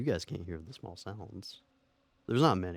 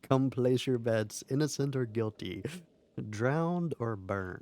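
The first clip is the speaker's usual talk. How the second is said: slow, drawn-out showman's call; mock betting barker; 4 semitones higher, 3 dB louder, slower than usual. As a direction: play a barker taking bets, stretching the last words. Mock advertising bets on witch trial.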